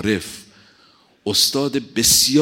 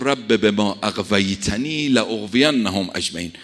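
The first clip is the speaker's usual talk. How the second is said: slow Quranic recitation; 2 semitones lower, slower than usual. Acted. Quran verse recited in sermon.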